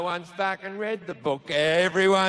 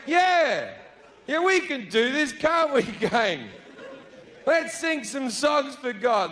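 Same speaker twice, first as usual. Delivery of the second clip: higher, peppy group cheer; rally the gang with mock enthusiasm; eager crowd; 4 semitones higher than usual.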